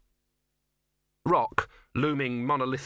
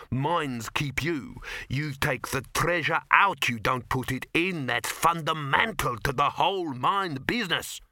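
lightly voiced, higher dwarf; mildly exasperated dwarf expert; lecturing dwarf; 4 semitones higher, slower than usual. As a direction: correct them firmly, point by point.

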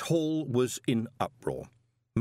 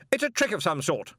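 shouted; 9 semitones higher, 3 dB louder than usual. A narrator's reading. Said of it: "shouted Stoley".

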